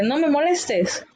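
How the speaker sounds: light demo of a stern order; mock command. Shown as a demonstration. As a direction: act out a slow, high-pitched don't bother me. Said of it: "haciendo una petición o una orden".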